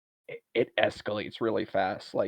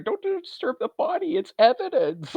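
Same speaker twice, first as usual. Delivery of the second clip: very high frantic imitation; hammed-up panic, getting louder; mock panicked warning; 4 dB louder than usual. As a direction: squeal it like a flustered bystander. Retold panicked group warning each other.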